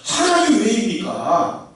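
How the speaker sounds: drawn-out, deliberate question to God; slow, pleading question; slow earnest plea. Shown as a demonstration. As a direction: ask it slowly, weighing each word. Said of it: "어쩌다 이런 일이 있다가 아니라".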